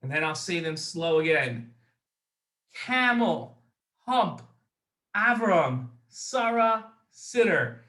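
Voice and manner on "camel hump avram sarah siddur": Camel, hump, Avram, Sarah, Siddur rattled off with short gaps; fast list. Shown as a demonstration. Host reads the memory list fast to the kids. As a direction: rush through the five words. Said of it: "Now I'm gonna say them fast".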